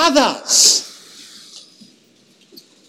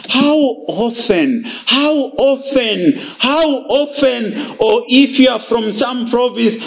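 repeated sorrowful how often; 3 semitones higher than usual. Acted. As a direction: draw out each how often with grief. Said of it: "exclamation mark of sighing".

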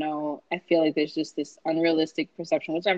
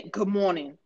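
dull, grudging "Good morning."; grumpy good morning. Shown as a demonstration. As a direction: mutter "Good morning." without a smile. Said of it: "I didn't say".

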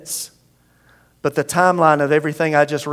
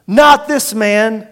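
loud, higher shout, drawn out slowly; crowd shout; 4 semitones higher, 7 dB louder, much slower than usual. Acted. The crowd refusing Pilate, shouting slowly. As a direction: roar it back at the governor. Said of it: "But they shouted back".

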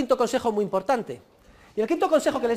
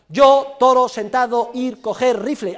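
word-by-word pidgin, like a dubbed western; halting mock-Indian delivery, first words punched loud; movie-western Indian speech; 2 semitones higher, 6 dB louder, slower than usual. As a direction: imitate film Indians, each word set apart. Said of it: "la traducción de las películas de los western".

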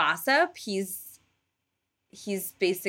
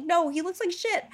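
disgusted Hera; 11 semitones higher than usual. Retold or imitated. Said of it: "Hera's like".

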